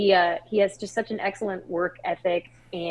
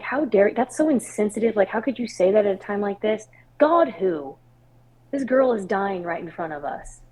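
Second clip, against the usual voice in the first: mildly heated, pitch a little raised; retold indignation; 3 semitones higher than usual. Aunt objecting to sister's talk of God's plan, mildly indignant. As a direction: protest as if offended, replaying an old anger. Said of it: "it infuriated me".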